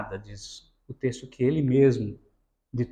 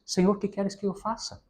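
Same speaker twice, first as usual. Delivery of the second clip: humble surrender; 4 semitones higher, 7 dB quieter than usual. Shown as a demonstration. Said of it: "mas a entonação não é essa".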